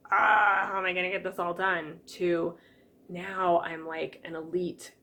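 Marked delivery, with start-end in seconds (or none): 0.1-2.0 overwhelmed. Retold or imitated. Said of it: "feeling like this overworked, overwhelmed".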